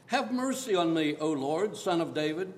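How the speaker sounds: loud, pleading cry to the Lord; a desperate mother crying out for her daughter; crying out for mercy. Acted. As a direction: beg him loudly for mercy. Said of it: "came out and was crying".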